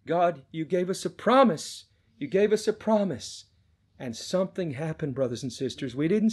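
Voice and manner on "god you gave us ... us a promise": pleading prayer, pitch rising; crying out for mercy. Retold or imitated. Father praying for his dying son, crying out. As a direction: plead with God, retelling a desperate prayer. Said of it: "we cried out to God for mercy".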